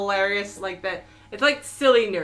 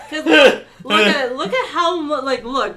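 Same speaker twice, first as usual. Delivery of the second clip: laughing; 6 semitones higher, 12 dB louder than usual. Real, not acted. Excited insisting while laughing.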